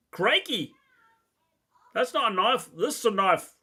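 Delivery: lightly put-on Australian accent; mock Australian accent. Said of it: "great accent there".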